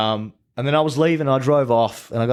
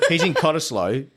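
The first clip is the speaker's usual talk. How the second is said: He's in Cottesloe much higher, rising on Cottesloe; incredulous repeat; 8 semitones higher than usual. Real, not acted. Mocking the boyfriend's excuse to his friends, rising disbelief. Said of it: "repeated for disbelief".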